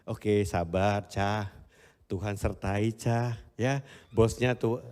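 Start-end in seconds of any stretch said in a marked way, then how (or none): 0.1-3.4 put-on soft, calming words to a stressed child; reassuring. Father calms his stressed daughter softly. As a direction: settle her down gently. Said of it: "Yang dibutuhin cuma denger".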